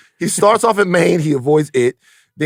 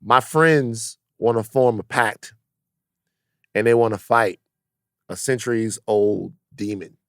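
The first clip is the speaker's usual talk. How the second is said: hushed nervous confession; 7 semitones lower, 6 dB quieter than usual. Pretend. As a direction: quietly confess to your parents. Voicing himself to his mom.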